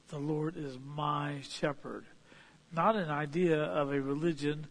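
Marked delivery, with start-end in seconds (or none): 0.1-2.1 "The Lord is my shepherd" slow and quiet; softly and slowly spoken; slow reverent quote. Shown as a demonstration. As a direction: linger over the line reverently. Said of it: "David identified that as possessive".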